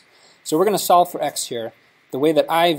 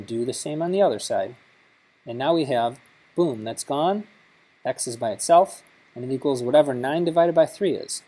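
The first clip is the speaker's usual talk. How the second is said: lightly put-on classroom teacher; walk the class through it step by step, lightly in teacher mode; a hint of a teacher addressing pupils. Shown as a demonstration. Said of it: "I'll put on my teacher voice here".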